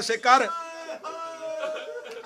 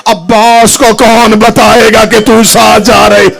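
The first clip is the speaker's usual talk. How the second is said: tearful; 9 dB louder than usual. Acted. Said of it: "Hussain रो कहते".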